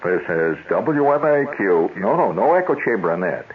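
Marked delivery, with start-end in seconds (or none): 0.0-1.9 slow station identification; lightly voiced radio announcer. Host imitates the show's announcer, slow announcer voice. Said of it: "the announcer would say".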